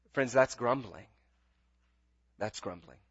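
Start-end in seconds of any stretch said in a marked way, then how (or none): 2.4-3.0 much softer, lower repeat; quiet echo. Real, not acted. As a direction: let the verdict sink in quietly. Preacher repeats verdict, softer.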